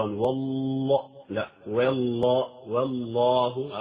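والله said slowly, the ل passing without a stop; slow والله, ل only brushed; lam in passing. Shown as a demonstration. Teacher repeats والله so students hear the ل flow. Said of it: "اللام لا تقف كثيرًا".

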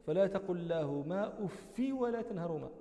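أف read "uffi", short final i; kasra without nunation. Shown as a demonstration. Teacher showing the remaining readers' version, "uffi" for أف without tanween. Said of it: "هؤلاء يقرؤون".

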